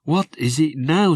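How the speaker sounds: a touch of irritation; impatient older sister, lightly cross; mock cross sister. Sister Rosie snaps at Jim who won't sleep, mildly cross. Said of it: "getting crosser".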